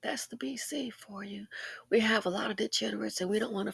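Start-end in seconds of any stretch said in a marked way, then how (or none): 0.0-1.5 hushed, bitter unvoiced verdict; bitter whisper. Real, not acted. Vlogger to viewers about his community, a bitter whisper. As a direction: whisper it like a grim truth.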